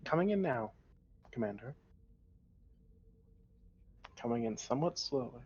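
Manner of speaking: ship computer, even and level; robot voice. Acted. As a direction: read it out like a starship computer. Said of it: "nothing but robot voices".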